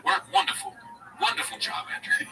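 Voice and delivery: high, mock British father doting; posh English dad. Comic mimicking Schultz's father at the Garden, high mock British. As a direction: play a proud English dad, cheerio and all. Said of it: "His dad's more like this".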